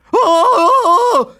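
hoge, luide schrikgil; gil. Acted. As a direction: gil het uit van schrik. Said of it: "gilde tante Mies". (tante Mies ziet muizen: hoge schrikgil)

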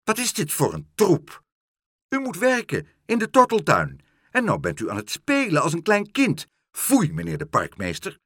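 high, loud scolding; snapping. A narrator's reading. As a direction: snap indignantly at a misbehaving grown-up.

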